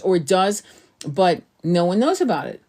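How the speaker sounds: ordinary delivery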